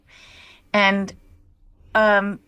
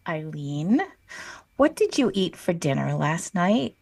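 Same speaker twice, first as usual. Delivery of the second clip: knowing mentor; 4 semitones lower than usual. Retold or imitated. Imitating mentor's knowing question.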